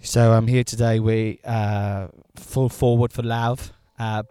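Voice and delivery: slow, mock sports presenter; sports interviewer. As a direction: play the serious sports host.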